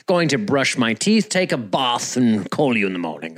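mock-proper British delivery; bad British accent. Host playing the husband after his wedding, bad British accent. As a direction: put on a shitty British accent. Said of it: "I don't know why he's British all of a sudden".

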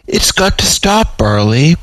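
high, begging plea; pleading. Acted. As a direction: beg her to end it. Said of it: "pleaded Britteri".

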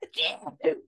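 sudden high sneeze; real sneeze mid-sentence; sneezing. Real, not acted. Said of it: "I'm gonna sneeze".

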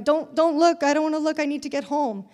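high and loud, begging herself not to look; flustered hurry. Retold or imitated. Woman hurrying through grocery store, flustered and loud. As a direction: rush it, avoiding eye contact.

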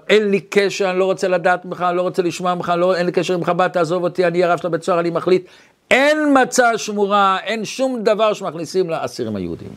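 a rattled-off mock tirade; retold angry yelling. Prison rabbi refusing a Chabad caller, retold mild yelling. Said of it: "הוא צועק עליו".

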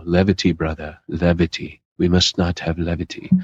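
lightly mocked solemn old-time believer; seventeenth-century churchman. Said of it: "like they're out of the seventeenth century".

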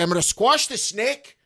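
a bad put-on wrestler menace; imitating Finn Balor. Host imitates a wrestler threatening the snake, mock menace. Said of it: "I don't do a good Finn Balor impression".

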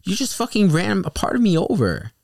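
high, loud indignant shout; outraged yell. Retold or imitated. Shouting back at the driver about the foot, high and loud. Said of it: "I'm like".

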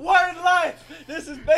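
high, loud hammed-up thug; mock thug voice. To his cohost, a high loud cartoon thug voice. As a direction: bark it like a cartoon gangster.

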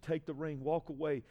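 loud, pleading cry, rising to full force; pleading shout. Retold or imitated. Husband begging his wife to leave him, shouting and pleading. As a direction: beg her to go as hard as you can. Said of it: "when I begged my wife to leave".

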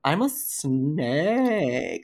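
a snake hamming for a selfie, slow and soft. Acted. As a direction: drawl it out like a posing snake. Player poses for camera as snake.

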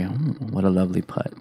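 golf commentator. Pretend. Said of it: "It's a golf commentary".

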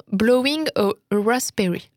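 careful attempt at an English accent; French speaker applying herself to English pronunciation; slight English accent. Real, not acted. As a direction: put on a little English accent. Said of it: "je voulais dire avec un petit accent".

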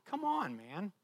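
high, pleading husband's complaint; mock exasperation. Husband coming home to rollers and dust cloths, mock exasperated. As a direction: start high and drop off in exasperation.

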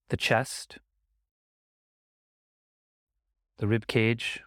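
unhurried meditation guidance with long pauses; guided meditation. Acted. Teacher guiding listeners to notice the breath, guided meditation. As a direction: gently lead the listener's attention, leaving space between phrases.

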